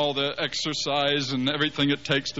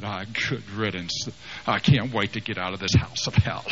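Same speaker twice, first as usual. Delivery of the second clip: put-on sullen teen; 5 semitones lower than usual. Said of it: "And he said".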